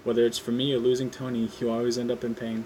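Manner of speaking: Vulture taunting in a lightly put-on accent. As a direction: sneer it out with a hint of a foreign accent. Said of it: "Sorry about the accent".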